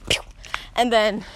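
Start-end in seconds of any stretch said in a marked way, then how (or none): 0.1-0.2 quick playful "pew" sound effect; mock "pew" noise. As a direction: make a little zapping pew. Imitated sound in retelling.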